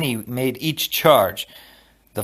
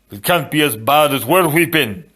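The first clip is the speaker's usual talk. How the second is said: slightly raised, irritable character voice; snapped retort; 3 semitones higher, 4 dB louder than usual. A narrator's reading. Fezzik to Inigo on the stairs, mildly snappish. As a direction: snap it back with mild impatience. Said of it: "Fezzik snapped".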